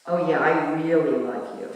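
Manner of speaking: "really" leaned on for an ironic twist; "really" emphasized and drawn out; stress on really. Shown as a demonstration. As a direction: put the inflection on "really" to change the whole meaning. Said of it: "we put the inflection like that".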